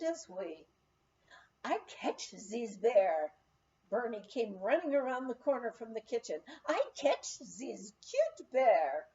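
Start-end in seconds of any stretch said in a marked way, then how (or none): 1.6-3.3 put-on slow, eager French-accented English; French boy announcing his plan, slowly; French boy declaring he'll catch the bear, French accent. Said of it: "a nineteen-year-old French boy". 6.7-9.1 put-on slow, eager French-accented English; French boy announcing his plan, slowly; French boy declaring he'll catch the bear, French accent. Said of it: "a nineteen-year-old French boy".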